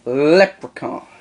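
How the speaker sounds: stretched slowly; slow drawn-out echo. Acted. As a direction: drag the word out slowly. Other host echoes the word.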